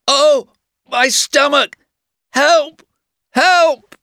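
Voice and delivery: high, loud fake cry for help; hammed-up shout of pain; shouting loudly. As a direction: yell in mock pain to fool the guard. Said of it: "he shouted very loudly".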